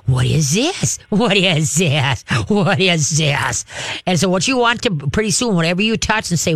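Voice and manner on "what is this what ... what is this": slow, drawn-out wondering; amazed, lingering curious question; playful curious. Shown as a demonstration. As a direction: stretch each word out in fascination. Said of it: "Laugh with your voice".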